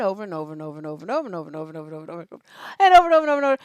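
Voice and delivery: rattled off very fast and low; endless repetitive griping. Acted. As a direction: run it together into a droning, racing loop. Mimics endless repetitive complaining.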